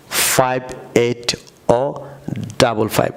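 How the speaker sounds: slow British drill, ও for zero, ডাবল ফাইভ; British number style. Shown as a demonstration. Teacher showing viewers the British way: ও and ডাবল ফাইভ. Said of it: "আবার বলুন".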